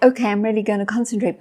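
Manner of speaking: quick, eager self-promise; mock resolve. Distracted listener resolving to pay attention, hurried mock resolve. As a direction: rush out a firm little resolution.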